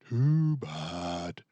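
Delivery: Papa's voice. A narrator's reading. Papa dismissing Boris, lightly voiced. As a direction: shut it down as Papa. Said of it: "Papa said".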